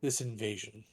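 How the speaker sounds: measured proclamation with long pauses; lightly voiced dragonborn orator, halting and grave; solemn public address. Dragonborn councillor addressing mourners at a vigil, solemn proclamation. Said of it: "very loud, probably magically amplified voice".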